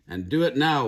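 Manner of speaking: a stern mom's command; firm order. Acted. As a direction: order it, no arguing. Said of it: "ordered Mama".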